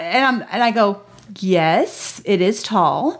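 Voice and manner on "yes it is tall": low, slow retold mom reply; measured, uncomfortable mock calm; careful composure. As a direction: answer with strained composure, drawing it out. Mother's stiff answer to child.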